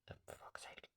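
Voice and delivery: whispered curse under the breath; muttered whispered swear; frustrated whisper. Real, not acted. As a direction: hiss it to yourself, annoyed. Frustrated at camera focus.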